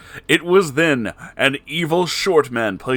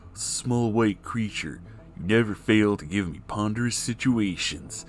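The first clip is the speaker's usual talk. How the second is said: respectful Garfield; 4 dB quieter than usual. Acted. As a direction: speak it with quiet respect. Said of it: "said Garfield with respect".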